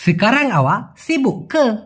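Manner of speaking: Sekarang awak sibuk ke said very slowly; slow demo. Shown as a demonstration. Teacher models the sentence slowly for students. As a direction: spell the Malay sentence out slowly. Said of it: "এখন আপনি ব্যস্ত নাকি?".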